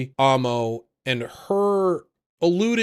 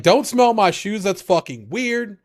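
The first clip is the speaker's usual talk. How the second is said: high, annoyed; high indignant voice; 7 semitones higher, 4 dB louder than usual. Retold or imitated. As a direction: snap back annoyed. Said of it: "she's like".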